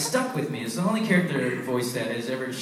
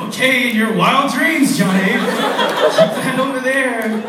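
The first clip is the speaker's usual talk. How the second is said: mock dismissive; 10 semitones higher, 9 dB louder, slower than usual. Mocking crew's reply.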